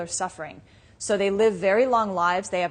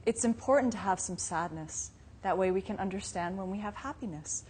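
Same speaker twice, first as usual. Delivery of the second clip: put-on softer, patient dad explaining to a child; gentle fatherly explanation; 7 dB quieter than usual. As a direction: calmly reason with a little girl. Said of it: "and he said".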